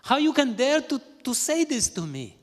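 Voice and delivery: high, loud indignant outburst; angry wife. Acted. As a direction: rage at him, pitch way up. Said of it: "she became very angry".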